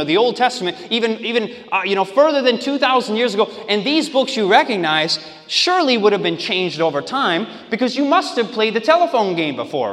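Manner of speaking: ordinary delivery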